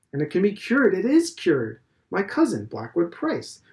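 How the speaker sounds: a hint of a pompous old headmaster; lightly voiced Mr Deasy. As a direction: lecture it like a self-assured elder.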